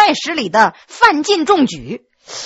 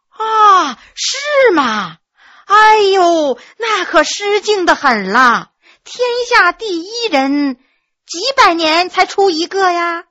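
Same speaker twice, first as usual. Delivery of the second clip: higher, hammed-up mock awe; feigned realization; 5 semitones higher, slower than usual. Maid pretending awe at the scholar, mock amazement. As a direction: fake an exaggerated sudden understanding. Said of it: "玉儿装作恍然大悟的样子说".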